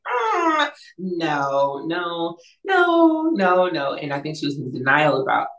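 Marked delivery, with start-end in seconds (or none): 0.1-3.9 mock protest. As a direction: play a mother's exaggerated objection. Retelling mom's horrified refusal.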